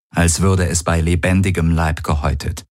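ordinary delivery, nothing marked

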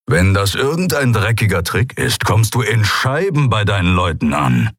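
a lightly voiced threatening brute; snarled threat, held back; menacing Keru. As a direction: threaten the prisoner coldly. Keru's threat, held character voice.

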